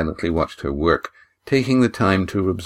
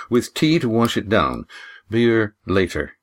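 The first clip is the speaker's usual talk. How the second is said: firm. Acted. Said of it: "said Lindy firmly".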